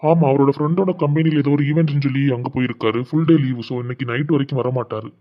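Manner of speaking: a doctor quietly reassuring after the checkup; calm doctor. Acted. Doctor speaking to the patient's family, low and soft. Doctor voiced by same actor.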